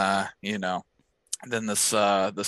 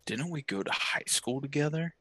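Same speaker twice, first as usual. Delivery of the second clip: acted greeting; 5 semitones higher, 5 dB quieter than usual. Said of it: "he walks up to me and he's like".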